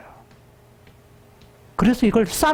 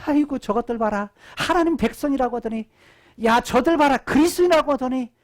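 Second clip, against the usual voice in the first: mildly mocking onlookers, slightly quick; 4 semitones higher, faster than usual. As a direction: jeer lightly, as bystanders would. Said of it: "조롱".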